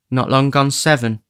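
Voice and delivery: lightly voiced Nancy answering; tired young woman, lightly voiced. Nancy voiced in Dickens reading.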